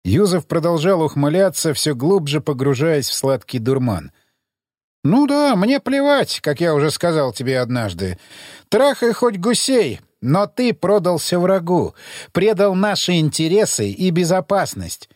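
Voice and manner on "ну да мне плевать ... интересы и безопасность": haughty angry interrogator. Acted. Emissary accuses.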